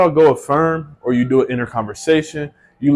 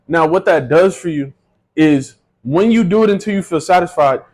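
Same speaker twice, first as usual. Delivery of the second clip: ordinary talk, nothing marked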